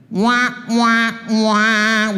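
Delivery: high-pitched crybaby wah; imitation baby-like complaining cry; mock whining wail. People who don't like something, mock whining. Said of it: "we complain".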